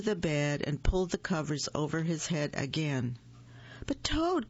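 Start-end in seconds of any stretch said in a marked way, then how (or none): 3.9-4.5 high-pitched, falling plea; crying out in protest. A narrator's reading. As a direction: protest in a raised storybook voice. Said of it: "cried Frog".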